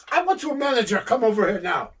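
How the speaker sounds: a hint of high demanding Fuji; demanding manager. Fuji to the waitress, a touch of high demanding. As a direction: insist on the manager. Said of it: "He goes".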